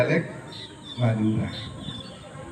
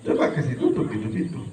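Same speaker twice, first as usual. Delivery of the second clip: put-on Flores accent; 5 semitones lower, 4 dB quieter than usual. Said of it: "Orang Flores begitu ya".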